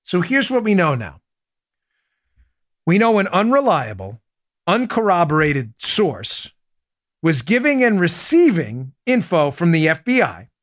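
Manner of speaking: emphatic slow summary, pausing between phrases; slow, deliberate reading. Real, not acted. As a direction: read it slowly, phrase by phrase, so every point lands. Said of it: "I'm gonna read it slow".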